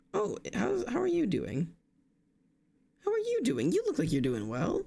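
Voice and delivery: squeaky high-pitched hello; high cutesy greeting. Acted. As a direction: greet them in a tiny high voice. Greeting raid target cutely.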